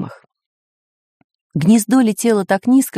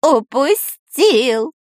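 drawn-out high wail; dismayed cry; 8 semitones higher, 3 dB louder, much slower than usual. A narrator's reading. Spy sees egg fall into ocean, dismayed wail. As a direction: wail in horror, stretching the word. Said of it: "закричал Дырка".

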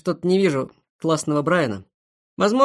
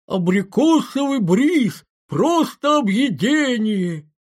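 put-on high, drawn-out squeaky ad kid; breathy cutesy giggly; 5 semitones higher, much slower than usual. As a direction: stretch it like a cloying TV kid. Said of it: "ребёнок с веснушками и писклявым голосом". (приторный писклявый голос ребёнка из рекламы)

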